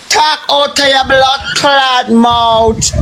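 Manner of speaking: slow, shouted, word by word; shouted repeat. Real, not acted. Scolding Rose on TikTok, a slow shouted repeat. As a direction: hammer each word home at her.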